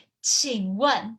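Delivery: 请问 with dipping third tone, then falling fourth; Mandarin tones. Shown as a demonstration. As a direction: say 请问 dipping on 请, dropping sharply on 问. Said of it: "you're gonna say".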